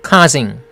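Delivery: "Causing" with a long open "aw" vowel; open, lengthened first syllable in "Causing". Shown as a demonstration. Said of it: "장모음이죠".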